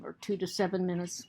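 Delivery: normal talking voice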